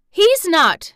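high, loud, near-shouted denial; almost shout in outrage; indignant child's cry; fierce indignation. A narrator's reading. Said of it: "almost shouting up at the wall in her fierce indignation".

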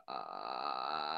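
deep vocal fry croak; low rattling ghost croak; Grudge croak. Shown as a demonstration. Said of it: "you start off with, like, a vocal fry and you get lower".

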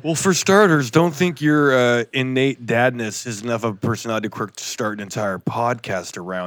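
hint of a gruff dad voice; Tyler impersonation. Co-host mimicking his friend's advice to dads, mock gruff impersonation. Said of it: "That was my, uh, Tyler impersonation".

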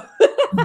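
short high, loud laugh; real laugh. Real, not acted. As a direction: burst out laughing at your own aside. Laughs after wishing their team wins.

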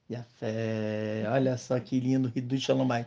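choppy, frozen stream audio; glitchy lagging connection; buffering stutter. Real, not acted. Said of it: "travou aqui".

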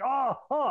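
hammed-up "oh, oh" groans; retold pain moans. Storyteller imitating a wrestler selling an injury, mock pained wailing. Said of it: "in pain and screaming".

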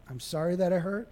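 soft sorry stressing I; apology on I. Shown as a demonstration. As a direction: own the hurt gently. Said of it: "And don't say you, just point".

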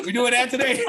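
laughing. Real, not acted. Mock outrage while laughing.

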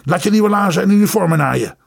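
bitter, shaking fury poured out quickly; trembling rage. Acted. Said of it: "bevend over zijn hele lichaam".

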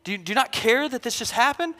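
fast, pleading little boy, lightly voiced; hurt kid. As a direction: rush out a wounded complaint to Dad. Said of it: "He'll be like".

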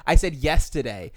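"yesterday" said the speaker's former odd way, loudly; old mispronunciation. Shown as a demonstration. Host showing friends an old habit, "yesterday" mispronounced. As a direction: hit "yesterday" as the word once mispronounced. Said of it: "I couldn't say yesterday".

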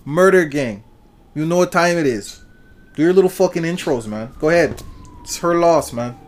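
lightly put-on Toronto accent. Host shouting out Toronto and its gangs, Toronto accent. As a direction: hype intro in a Toronto accent. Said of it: "When I speak in this accent".

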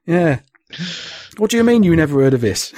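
high, protesting Cockney; Cockney chef. Acted. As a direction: play an indignant Cockney chef. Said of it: "I don't know why it's Cockney".

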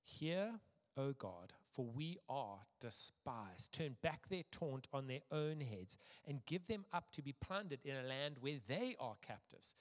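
measured, deliberate public Bible reading; scripture reading. A narrator's reading. Preacher reading Nehemiah aloud to a congregation, measured and deliberate. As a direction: read it out formally, phrase by phrase.

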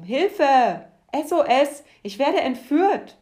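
high, loud cries of alarm; yelling for help. A narrator's reading. Worm pulled out by the deva, shouting for help. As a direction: scream that you're being kidnapped.

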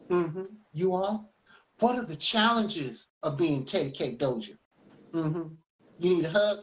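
child playing talk-show host; lightly mock a host's interview manner; announcer's voice. Child interviews a teddy bear like mom, pretend announcer voice. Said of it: "like, this announcer's voice".

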